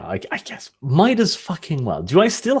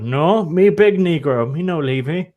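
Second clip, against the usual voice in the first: incredulous; slower than usual. Acted. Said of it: "like, incredulous".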